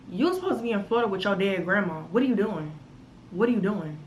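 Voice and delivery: a caught-him, disbelieving what are you doing; shocked confronting. Retold or imitated. Confronting lying boyfriend.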